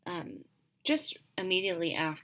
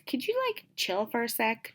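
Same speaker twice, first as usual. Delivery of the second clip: put-on very high, louder bratty teen voice; juvenile teen; 8 semitones higher, 4 dB louder than usual. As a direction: sound like a snippy teenager. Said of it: "you can just tell that she's juvenile".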